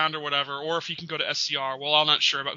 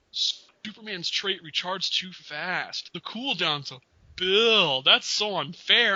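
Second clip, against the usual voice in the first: mock whining; 3 semitones higher, slower than usual. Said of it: "he's like".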